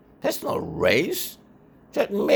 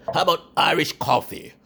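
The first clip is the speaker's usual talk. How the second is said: mocking challenge; 11 semitones higher, 4 dB louder, faster than usual.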